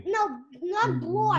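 loud, high, slow correction. Real, not acted. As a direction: shout the correction. Child corrects reader loudly.

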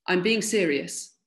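slow, slightly gruff warning; mildly gruff and deliberate, meaning it; getting gruffer. A narrator's reading. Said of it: "His voice was becoming gruffer".

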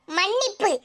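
the word மன்னிப்பு stretched out slowly with scorn; a slow, sneering மன்னிப்பு; disdainful drawl. Acted. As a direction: say மன்னிப்பு slowly as if it tastes bad. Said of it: "தமிழ்ல எனக்கு பிடிக்காத வார்த்தை".

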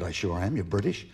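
put-on low-pitched American accent; American woman. American woman greeting a British man in the pub, low American accent. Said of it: "You're American".

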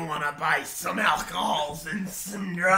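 slow, croaky shady dealer; dying man voice. Acted. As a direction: creep offering kids drugs, slowly. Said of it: "you sound like a dying man".

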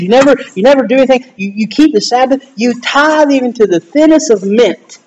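acted praise piling up, pitch lifted; emphatic commending. Jesus commending the Pharisees for keeping the law, lightly acted admiration. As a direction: list their feats with mounting emphasis. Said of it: "he started commending them".

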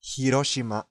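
"広島" with a sounded H and level Japanese pitch; Japanese pronunciation. Shown as a demonstration. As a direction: say "広島" evenly, the Japanese way. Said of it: "それは日本語の発音ですね". (「広島」を日本語の発音で平らに)

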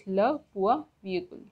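"le point virgule" with "le" stressed; French pronunciation demo. Shown as a demonstration. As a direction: model "le point virgule" word by word. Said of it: "Semicolon is pronounced as".

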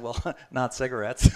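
chuckling through the words; amused retold reply with a laugh. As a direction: laugh as you answer. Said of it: "And I laughed".

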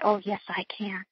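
whispered, slow and steely; defiant whisper. Retold or imitated. Mother answering the staff who doubt her, in a slow defiant whisper. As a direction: quietly insist you can do it.

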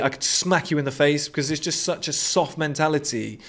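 ordinary talk, nothing marked

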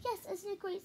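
bright high cheerful read; lightly voiced jolly father; Papa Bear. A narrator's reading. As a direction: cheer him on, admiring the mall. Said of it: "said Papa Bear".

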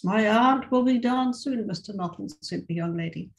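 expressive read-aloud with voiced dialogue; story reading. A narrator's reading. Teacher reading a short story to her English class, expressive narration. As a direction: tell the tale to the class, lively and clear.

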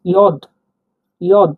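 ইয়দ said as yod, short and clear; teacher pronouncing ইয়দ; word demo. Shown as a demonstration. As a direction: model ইয়দ twice. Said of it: "আমি উদাহরণ দিচ্ছি দেখুন".

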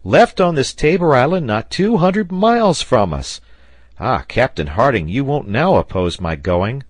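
loud, high-pitched excited sailor; exclaiming. A narrator's reading. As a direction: burst out eagerly, pressing the captain. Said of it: "exclaimed Pencroft".

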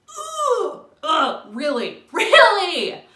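high, loud ugh and disbelieving really; exasperated groan. Real, not acted. Fed up with the rude stranger, exasperated groans. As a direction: groan it out in disgust.

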